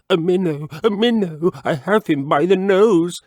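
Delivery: high, loud excited frog cry. Acted. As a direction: shout it out like he's caught one. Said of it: "cried Mister Jeremy Fisher".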